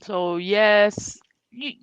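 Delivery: talking with food in mouth; words round a bite of food; chewing while talking. Real, not acted. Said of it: "Sorry, I'm chewing".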